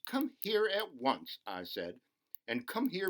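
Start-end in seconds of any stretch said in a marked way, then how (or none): 0.1-1.4 high, slow call across the park; calling out sharply. Acted. Mother calling child in park. 2.5-3.1 high insistent call; calling out again. Acted. Mother calling child again.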